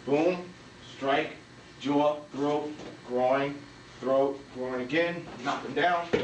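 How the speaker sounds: each strike called separately, with pauses; deliberate, measured drill call; slow step-by-step count. Shown as a demonstration. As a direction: spell out the moves one by one. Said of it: "One more time, slowly".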